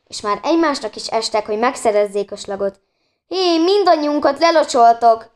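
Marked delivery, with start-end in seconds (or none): 3.3-5.3 high, loud squealed protest; squealing. A narrator's reading. Anna protests as everyone gets sprayed, squealing. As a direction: cry out high over the water fight. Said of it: "sikítozott Anna".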